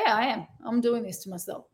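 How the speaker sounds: brisk, plain admission with no drama; just state it as a fact, quickly; matter of fact. Shown as a demonstration. Coach to viewers, showing the self-talk, matter of fact. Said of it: "and be matter of fact about it".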